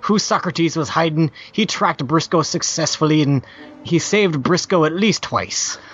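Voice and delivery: lightly voiced pirate reading; a hint of an old sea dog. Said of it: "read in a pirate voice".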